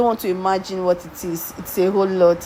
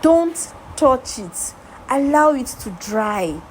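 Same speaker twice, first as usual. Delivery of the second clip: firm instruction; 3 semitones higher than usual. Retold or imitated. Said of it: "I said".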